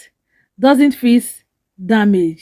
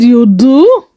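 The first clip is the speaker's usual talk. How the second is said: hopeful; 6 dB louder than usual. Acted. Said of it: "Adewale hopeful".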